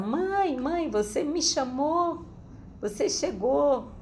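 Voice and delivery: high-pitched child calling out, slowed, imitating her son; son calling from the gate. A son calls his mother from the gate, high mock calling. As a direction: call up high like a boy at the gate. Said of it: "Ele já gritou do portão".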